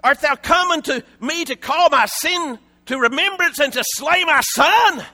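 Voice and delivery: a touch of bitter blame; accusing. Retold or imitated. Widow blaming Elijah for her son's death, mildly accusing. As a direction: point the finger at him, mildly. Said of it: "Can you hear the blame and the accusation".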